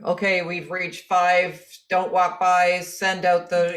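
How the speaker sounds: slow, mechanical robot voice. Shown as a demonstration. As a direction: speak it like a machine. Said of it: "this is my robot voice".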